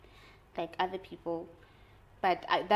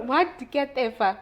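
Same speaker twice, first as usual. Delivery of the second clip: mock disbelief; 6 semitones higher, 7 dB louder, slower than usual. Mimics partner's reaction.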